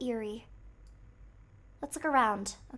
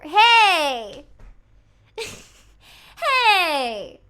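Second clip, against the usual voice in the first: indignant shout; 4 semitones higher, 13 dB louder than usual. Real, not acted. Reacting to chat teasing.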